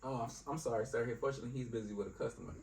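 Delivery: soft, apologetic customer-service delivery; polite phone voice. Shown as a demonstration. Worker tells caller that colleague is busy, polite. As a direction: let the caller down gently, politely. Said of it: "it's polite and welcome".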